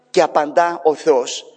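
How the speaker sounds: usual speaking voice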